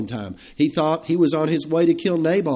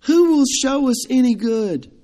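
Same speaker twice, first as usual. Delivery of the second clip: defeated sigh; 10 semitones higher, 4 dB louder than usual. Retold or imitated. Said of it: "a defeated sigh".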